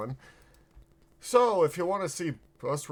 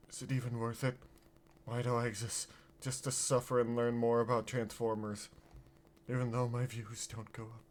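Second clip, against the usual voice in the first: softer, mock self-pity; woe is me; 5 dB quieter than usual. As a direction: sigh it out like a tragic martyr. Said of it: "doing the woe is me thing".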